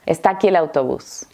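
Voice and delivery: ESTÁ AQUÍ linked as "estakí", quick; très rapide. Shown as a demonstration. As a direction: rattle it off as one joined phrase. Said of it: "Lo voy a decir muy rápido".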